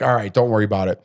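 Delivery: understated, easygoing reassurance; very calm. Retold or imitated. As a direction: brush it off calmly. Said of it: "Like, very calm".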